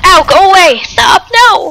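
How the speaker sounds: high, urgent cries; alarmed. Real, not acted. Player attacked while selling the fun, alarmed. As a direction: break into a pained, high protest. Monster attacks mid-sentence.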